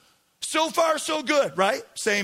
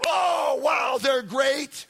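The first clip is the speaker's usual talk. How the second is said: mock fan cheering; 2 semitones higher, much slower than usual. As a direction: imitate fickle fans cheering their team. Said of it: "everybody was".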